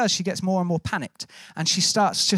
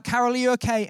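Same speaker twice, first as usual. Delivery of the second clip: mild retold call, pitched higher; 4 semitones higher than usual. Rescuer to unresponsive woman in the water, calling out. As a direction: check on someone far off, lightly raised. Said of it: "we're calling out".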